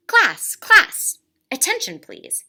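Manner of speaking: loud high call for attention; calling class to order. Acted. Principal calling the class to attention, loud. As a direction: raise your voice over the room.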